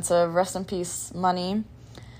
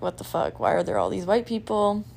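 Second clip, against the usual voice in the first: whispered shock; 4 dB quieter than usual. Retold or imitated. Retold shock arriving north.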